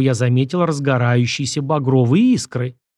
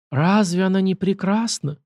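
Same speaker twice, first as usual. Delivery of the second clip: dreamy; 6 semitones higher than usual. Acted. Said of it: "мечтательно произнёс Кустодий".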